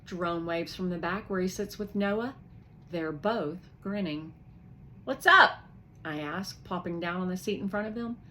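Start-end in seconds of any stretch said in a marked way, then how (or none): 5.0-5.6 high, loud, eager; eager question. Acted. Piper greeting the boys, high and eager. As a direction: ask brightly.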